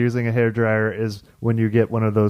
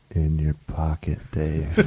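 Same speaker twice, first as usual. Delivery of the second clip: low, soft computer voice; talking Google; 8 semitones lower, 6 dB quieter than usual. Acted. Google telling Dave where his keys are, machine-like. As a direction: answer like a low, quiet machine. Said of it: "So Google could go".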